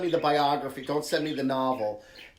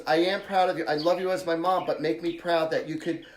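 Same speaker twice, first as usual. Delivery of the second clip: proud, rallying daughter; 4 semitones higher, 4 dB louder than usual. Retold or imitated. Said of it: "She goes".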